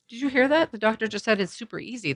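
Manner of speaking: high, light reassuring voice; retold encouragement.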